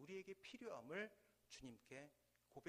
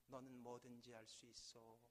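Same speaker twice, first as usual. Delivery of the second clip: softer distant echo; faint echo; 5 semitones lower, 8 dB quieter than usual. Acted. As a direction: let it come back quietly from far. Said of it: "저 멀리서". (멀리서 돌아오는 메아리)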